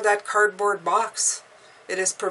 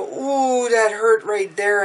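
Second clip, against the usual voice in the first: mock pained ooh; 3 semitones higher, 6 dB louder, slower than usual. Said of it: "I go".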